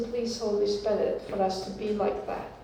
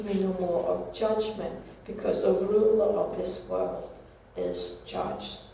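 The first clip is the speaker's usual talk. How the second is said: measured, solemn Bible reading; scripture reading. Acted. Reads scripture passage aloud.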